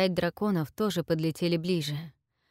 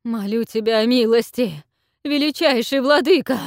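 higher, loud begging call; loud plea; 5 semitones higher, 9 dB louder than usual. A narrator's reading. Queen begs the dragon for mercy, loud plea. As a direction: call out your plea to the lord. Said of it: "Затем громко крикнула".

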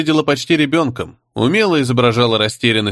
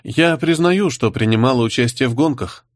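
plain reading voice

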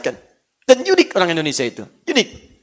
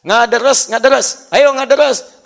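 a hint of a parent nagging the child, rising louder; Sundanese parent urging; 3 semitones higher, 4 dB louder, slower than usual. Preacher imitating a Sundanese parent urging recitation. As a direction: call the kid to recite, more insistent each time. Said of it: "orang tua mengatakan".

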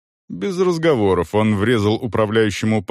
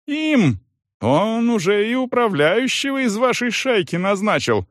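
accusing shout; 14 semitones higher than usual. A narrator's reading. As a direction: point and shout it. Salon keeps accusing.

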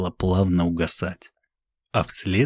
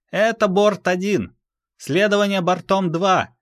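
much higher, sharp radio call; pilot voice; 12 semitones higher, 4 dB louder than usual. Acted. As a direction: another pilot answering over radio. First ship pilot reports.

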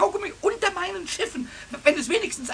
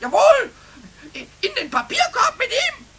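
mocking teacher impression.

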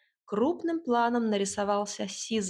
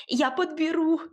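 much higher, louder eager cry; eager shout; 7 semitones higher, 4 dB louder than usual. A narrator's reading. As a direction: dash off shouting. Boy rushing forward.

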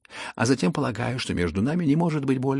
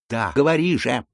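much louder urging; impatient demand; 3 semitones higher, 7 dB louder than usual. Acted. Impatient Lizaveta presses the prince to speak, loudly. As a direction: force the answer out of him.

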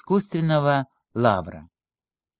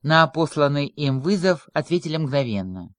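ordinary delivery, nothing marked

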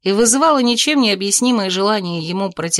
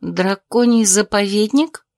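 surprised; slower than usual. Acted. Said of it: "широко распахнула глаза от удивления".

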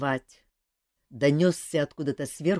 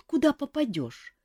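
high small chick voice on куда попадёшь; chick quoting back; 11 semitones higher than usual. A narrator's reading. Chick repeats Kantor's words, high puzzled. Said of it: "А что значит".

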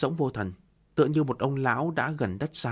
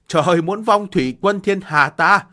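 higher, louder crying wail; anguished wail; 5 semitones higher, 9 dB louder than usual. Acted. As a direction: wail it to the heavens. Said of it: "gào khóc".

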